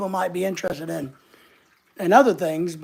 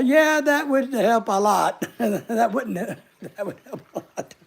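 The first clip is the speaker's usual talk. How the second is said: laughing. Real, not acted. Laughs through the reply.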